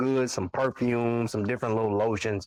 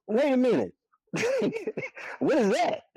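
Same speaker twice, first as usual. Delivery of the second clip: startled; 13 semitones higher than usual. Retold or imitated. Noticing girlfriend's pregnant belly.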